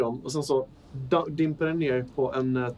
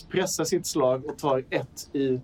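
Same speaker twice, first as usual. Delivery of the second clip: ordinary talk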